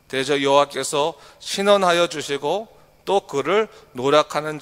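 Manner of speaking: firm, solemn reading, slowing at the end; scripture reading. Acted. Pastor reading verses twenty-two and twenty-three, firm and solemn. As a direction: read the warning verses with weight.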